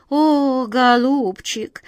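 drawn-out, kindly sympathy; a sympathetic old aunt, slow and kind. A narrator's reading. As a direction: pity the poor dear, slowly. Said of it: "с сочувствием покачала головой".

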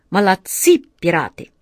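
eager exclaim. Acted. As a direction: cheer them on with gusto. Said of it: "азартно воскликнул капитан".

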